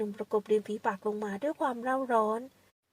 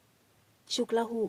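skeptical echo; much slower than usual. Acted. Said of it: "ชายหนุ่มถามซ้ำ".

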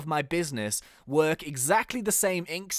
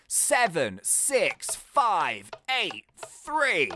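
seven six five eight three said very slowly, each number apart; slow spelled out code; much slower than usual. Shown as a demonstration. Gamer reading the safe code back, slow and careful. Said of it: "repeating code slowly".

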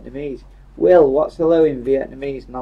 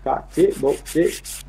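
Yorkshire dialect; slower than usual. Shown as a demonstration. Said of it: "make his own words up in Yorkshire".

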